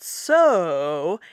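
"so" sung up, down and up again like a tilde; sarcastic "so" with an up-down-up lilt; tilde-shaped so. Shown as a demonstration. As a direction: swoop "so" in a rise-fall-rise. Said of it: "actually makes the shape of the tilde".

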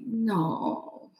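a whispered, tearful no; crying no. Retold or imitated. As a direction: breathe out the no as if about to cry. Learning she is paralyzed.

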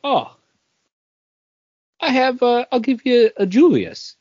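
imitating his own excited self; eager offer. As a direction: pitch it up like an eager swap.

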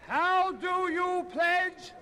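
loud, slow call to a crowd. Real, not acted. Calling out to the crowd.

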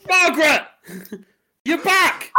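astonished recognition. Acted. Landlord reunited with old lover in the sack, astonished. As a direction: cry out in amazed recognition.

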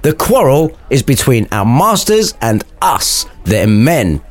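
mildly proud servant voice; a touch of hammed-up pride. Gregory declaring the quarrel to Samson, mildly proud. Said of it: "said Gregory proudly".

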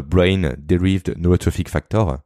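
English term in a heavy French accent, slowly. Real, not acted. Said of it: "Mon accent anglais est catastrophique".

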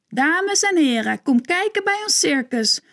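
high announcer call through cupped hands. A narrator's reading. Joep calls the crowd to his circus, high announcer call. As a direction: announce it to the whole ice. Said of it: "handen bij zijn mond".

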